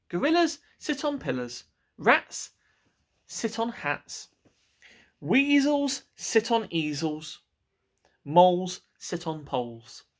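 slow, deliberate reciting of rules; know-it-all cat. Acted. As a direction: spell out the obvious rules like a smug cat.

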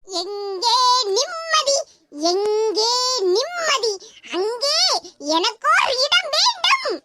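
very slow, stretched-out declamation; hammed-up tragic plea, rising at the climax; melodramatic recital. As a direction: draw every word out like an old film tragedian. Melodramatic recital of a famous line.

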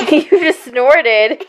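laughing while teasing. Real, not acted. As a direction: giggle through the words. Laughing at child's snort.

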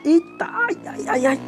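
sudden high yelp of pain. Pretend. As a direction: cry out as if just shot. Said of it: "fui atingido".

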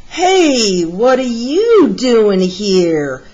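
gruff mutt. Acted. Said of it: "said the biggest mutt".

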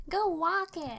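high mocking "walk" with w instead of the r in "work"; says w for r. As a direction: tease it as "walk" for "work", with a w sound. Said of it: "Now you're saying it".

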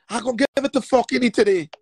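loud emphatic threat. Shown as a demonstration. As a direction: hit him with it hard. Repeated threat, building up.

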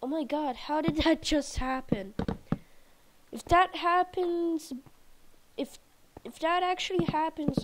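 high, loud incredulous; can't believe it happened; excited disbelief. Real, not acted. Shocked by game event.

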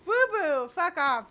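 loud, high-pitched outburst; high, loud cursing at the game; startled angry shout. Real, not acted. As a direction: yell it off in irritation.

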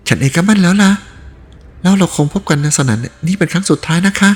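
put-on young woman voice. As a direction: voice the young woman, tearful and resigned.

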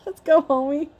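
mock fired-up challenge; hyped challenge. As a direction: pump yourself up for a fight.

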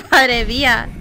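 madre mía through a laugh, slowed; laughing disbelief. Real, not acted.

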